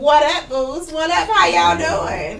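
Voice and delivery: greeting through laughter; laughing greeting. Real, not acted. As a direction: laugh while saying hello. Greeting guests while laughing.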